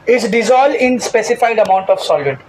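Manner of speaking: slow, drawn-out dictation of a definition. Shown as a demonstration. Teacher dictating a definition to the class, slowly. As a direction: spell it out slowly for note-taking.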